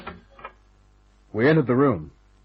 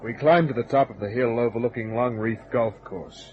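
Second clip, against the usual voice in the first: hard-boiled narration. A narrator's reading. Detective narrates scene.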